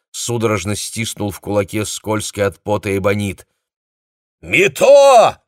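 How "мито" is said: high, loud call down the line; shout. A narrator's reading. Captain shouts into a bad phone line to Mito. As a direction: yell the name into the receiver. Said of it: "крикнул он".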